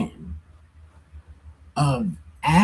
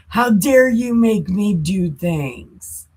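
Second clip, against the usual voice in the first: slow, higher-pitched mock outrage; mock indignation; 4 semitones higher, slower than usual. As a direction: act put-upon and indignant, drawing it out. God scolding Satan in acted retelling.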